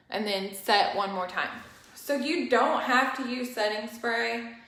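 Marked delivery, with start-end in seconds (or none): 1.9-4.5 winded, pausing for air between words; out of breath. Real, not acted. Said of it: "I'm, like, out of breath".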